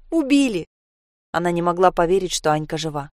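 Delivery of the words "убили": высоко, sharply higher and louder, wailing; girl crying into the grandmother's apron; tearful cry. Acted. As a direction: wail the word убили out through tears. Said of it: "уткнулась ей в живот и заплакала".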